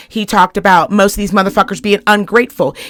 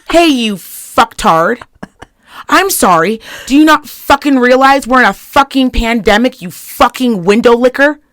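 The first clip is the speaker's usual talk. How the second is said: snide insult; 2 semitones higher than usual. Retold or imitated. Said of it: "This motherfucker responded".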